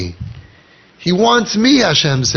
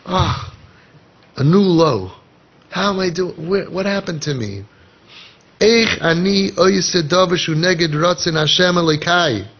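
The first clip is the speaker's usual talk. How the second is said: mock lament; 2 semitones higher than usual. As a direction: groan it to yourself, half-hearted. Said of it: "you're thinking".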